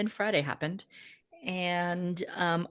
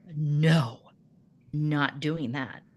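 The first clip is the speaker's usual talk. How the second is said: put-on defiant child; 3 semitones lower, much slower than usual. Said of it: "this child is like".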